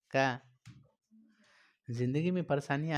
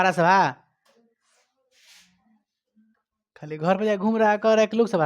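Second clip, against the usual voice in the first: loud, raised-pitch teacher's telling-off; real scolding; 4 semitones higher, 8 dB louder than usual. Real, not acted. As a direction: tell a student off at full volume. शिक्षक छात्र को डाँट रहा है. (ज़ोर से डाँटते हुए)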